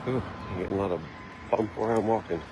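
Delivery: jolted by a bumpy walk; on a bumpy road. Real, not acted. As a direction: voice bouncing with each step. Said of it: "sorry about the bumpy walk".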